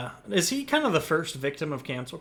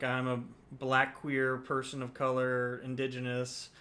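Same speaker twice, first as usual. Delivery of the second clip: mock donation plea; 3 semitones lower, 7 dB quieter than usual. Mimicking online donation begging posts.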